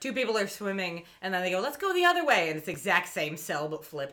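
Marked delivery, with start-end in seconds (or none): 1.6-2.5 higher-pitched mock cartoon swimmer; lightly voiced cartoon. Swimmer calling a change of direction, lightly voiced cartoon. Acted cartoon character line.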